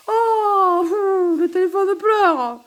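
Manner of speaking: high, loud, laughing wail; helpless laughter pushing the voice high; can't keep serious. Real, not acted. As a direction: crack up while wailing the words, drawn out. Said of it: "je rigole. J'arrive pas à la faire sérieuse".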